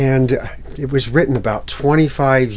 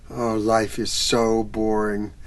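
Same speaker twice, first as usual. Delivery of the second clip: bored sigh; 3 semitones lower, 5 dB quieter than usual. Acted.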